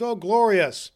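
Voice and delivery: high, loud, delighted cry; rapturous exclamation. Acted. Scrooge hears Christmas bells ringing, rapturously. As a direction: exult with a falling swoop.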